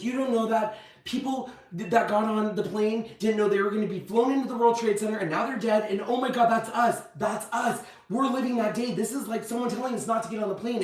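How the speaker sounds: mildly panicked insisting; retold paranoia. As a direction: plead a frantic case, acted out. Frantic paranoid argument retold.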